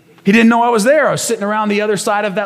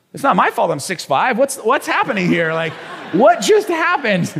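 retold bewilderment; 5 semitones higher than usual. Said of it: "looking at Cindy like".

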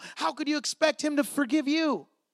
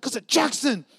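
raised, mock-indignant complaint; retold upset outburst; 4 semitones higher, 6 dB louder than usual. Dad to wife about the lost toy, retold upset outburst. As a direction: build to a loud, higher-pitched gripe. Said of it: "And I was so mad".

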